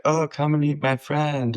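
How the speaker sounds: imitating brother. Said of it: "he's like".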